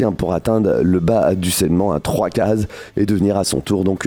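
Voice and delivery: a lightly voiced guttural orc. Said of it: "je vais continuer avec ma voix d'orque".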